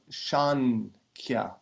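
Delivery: Shankya with n before the k; N variant. Shown as a demonstration. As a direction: say Shankya with an n in place of m. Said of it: "with an N".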